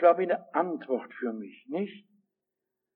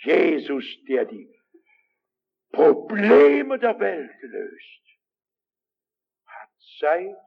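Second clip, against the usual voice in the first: moved, tearful; 4 semitones lower, slower than usual. Real, not acted. Emotional climax.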